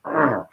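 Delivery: imitated chewing growl; growl of biting in. Shown as a demonstration. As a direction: growl as if sinking teeth into foam. Mimes biting into squishy foam.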